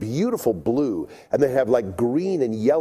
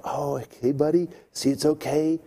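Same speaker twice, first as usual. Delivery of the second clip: soothing a lizard; 3 dB quieter than usual. Retold or imitated. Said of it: "And so I thought".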